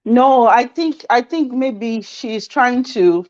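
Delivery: talking through a head cold; blocked nose, congested voice; stuffy nose. Real, not acted. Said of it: "Sorry, I have a cold".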